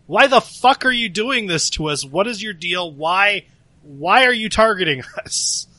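loud, high, outraged demand; angry confrontation. Acted. Player's character confronts the woman targeting them, angry and loud.

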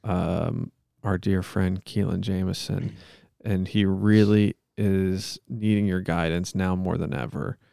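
measured, solemn monotone plea; earnest-sounding improvised prayer; mock prayer. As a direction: pray aloud with halting mock sincerity.

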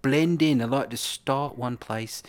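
put-on Geordie drifting off course; comically unstable regional accent; wandering accent. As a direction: let a bad Geordie accent slide somewhere else. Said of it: "start one place and I like to end".

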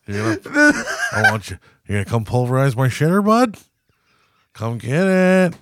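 hammed-up taunting invitation that ends in a yell; mock come-on. Roommate taunting his friend, rising to a hammed-up shout. Friend voiced in a crude joke.

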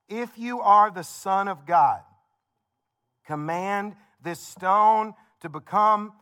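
preacher lightly voicing the tempter; dramatic devil quote. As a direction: draw out the devil's dare slowly. Devil's tempting words read dramatically.

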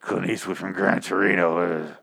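slow, groaning impression of a TV actor; mock growling grunt. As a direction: drag it out like gargled rocks. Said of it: "and he groans, and he barely speaks English".

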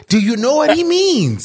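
playful mock shout. Playful shout in guessing game.

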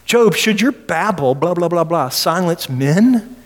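a hint of a smug accuser; scornful Zophar. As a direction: sneer at Job's babble. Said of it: "I can't believe he said that".

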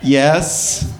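ordinary talk, nothing marked

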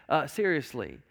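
ordinary talk

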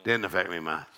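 a shrugging churchgoer who gave nothing; stingy giver. Retold or imitated. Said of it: "if you can give and go".

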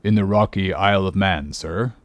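lightly voiced humble old sailor; deferential answer. Old sailor tells captain his birthplace, mildly deferential.

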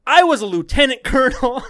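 mock the recruit's pride while cracking up; laughing mock pompous. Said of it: "he goes".

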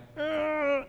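high, held honk; imitated car horn. Driver cut off in traffic, imitated long horn blast. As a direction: mimic leaning on the horn.

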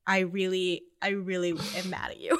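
tearful shout at mom, voice cracking; wailing on the phone to mom, half laughing; crying mad. Retold or imitated. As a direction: sob it out angrily.

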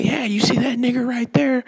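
mock whisper. Fan pointing out a player at the Thunder game, mock whisper. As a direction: whisper it like a sly sports fan.

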